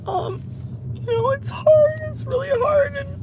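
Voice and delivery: high, strained crying voice; words squeezed out through sobs; sobbing. Real, not acted. Owner breaking down on camera, sobbing. Breaking down over dead dog.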